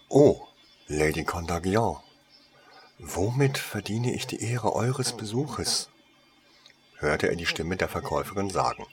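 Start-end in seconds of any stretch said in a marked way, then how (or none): 0.1-5.9 bow and scrape, falsely humble; servile. Acted. Saleswoman fawning over a dangerous customer who enters. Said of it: "Sie klang jetzt sehr unterwürfig".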